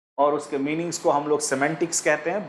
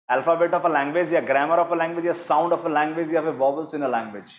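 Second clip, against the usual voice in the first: slow, deliberate reading of the answer options; measured quiz-question voice; much slower than usual. Shown as a demonstration. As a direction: read each option out slowly for the class. Teacher reads quiz options aloud.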